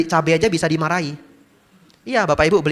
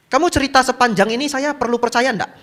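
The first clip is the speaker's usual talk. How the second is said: challenging; 12 semitones higher, 5 dB louder than usual. Retold or imitated. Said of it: "dia tiba-tiba bilang begini".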